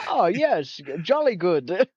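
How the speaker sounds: lightly put-on jolly English accent; mock English accent. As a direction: tease with a posh-English imitation. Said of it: "Gonna be English now?".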